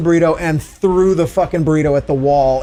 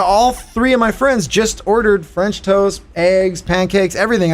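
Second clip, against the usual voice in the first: retold incredulous protest; 4 semitones higher than usual. Customer arguing with the counter girl, incredulous. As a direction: spell it out in mild disbelief.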